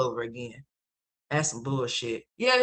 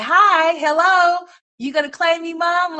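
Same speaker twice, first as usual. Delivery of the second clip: put-on squeaky high little-kid voice, louder; surprise kids; 12 semitones higher, 7 dB louder, slower than usual. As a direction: pop up like a surprise baby asking for mom. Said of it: "these kids just start popping up like".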